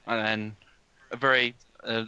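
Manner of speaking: usual speaking voice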